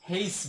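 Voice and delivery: "হেইস" with an h sound at the front; variant H pronunciation. Shown as a demonstration. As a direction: start "হেইস" on a breathed h, like "heis". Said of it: "native যারা রয়েছে". ("হেইস"-এর শুরুতে হ উচ্চারণ)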